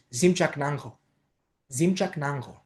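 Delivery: ΖΙΜΤΣΑΚΝΑΓΧΟ evenly, with thick dzh; pronunciation model. Shown as a demonstration. Teacher showing how it is really pronounced, careful model. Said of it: "προφέρεται ως".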